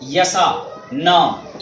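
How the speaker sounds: यानी इचू यसा drawn out slowly; teacher reads इचू यसा slowly, split into parts; slow syllable reading. Shown as a demonstration. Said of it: "इचू यसा नाम पढ़ना भी इसी तरह आपको है".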